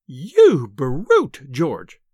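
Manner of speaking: loud, scolding outburst; furious scream. A narrator's reading. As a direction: scream it in outrage at a husband. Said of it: "she screamed".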